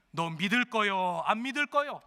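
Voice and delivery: loom over him with the question; menacing demand. Acted. Threatening demand to inmate.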